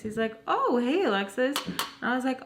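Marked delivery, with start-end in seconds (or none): 0.5-1.5 imitating a surprised greeting, pitched high; mildly surprised. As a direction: greet her as if slightly caught off guard. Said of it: "he's kinda, like, surprised".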